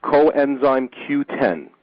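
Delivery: Coenzyme Q ten said very slowly, each part of Coenzyme apart; deliberately slowed clarification; slow, careful spelling-out. Shown as a demonstration. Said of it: "Can you spell that".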